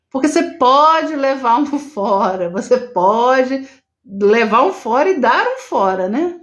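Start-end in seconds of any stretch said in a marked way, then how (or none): none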